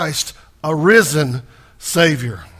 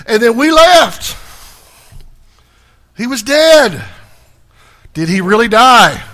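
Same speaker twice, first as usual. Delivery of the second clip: higher, louder preacher hammering it home; preaching at full force; 6 semitones higher, 6 dB louder than usual. Acted. Preacher drives the crucifixion home to his congregation, loud and high. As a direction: climb and pound each line.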